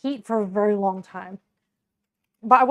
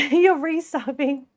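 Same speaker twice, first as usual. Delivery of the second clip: slow, laughing through the words; 3 semitones higher than usual. Real, not acted. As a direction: chuckle it out slowly. Teasing chat about resubbing.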